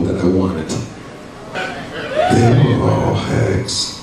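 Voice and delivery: spooky storytelling voice; ghost voice. Pretend. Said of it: "turn on my ghost voice".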